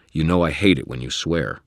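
stern, firm scolding. Acted. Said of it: "Michael said sternly".

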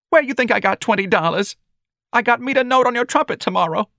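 high-pitched, scolding mother; angry. A narrator's reading. Mother berating her son over the hospital bill, angry. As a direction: scold in a high, aggrieved wail. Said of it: "her powdered face lined by anger".

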